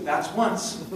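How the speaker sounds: flat, cold threat to the husband; dead serious. Retold or imitated. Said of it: "She looked at me real serious".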